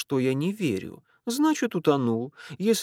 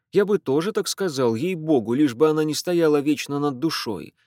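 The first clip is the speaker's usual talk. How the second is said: ordinary delivery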